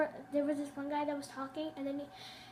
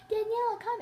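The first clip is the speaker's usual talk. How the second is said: higher, louder mock call; mocking kid; 8 semitones higher, 5 dB louder than usual. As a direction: copy the teacher to tease him. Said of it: "one kid in the group said".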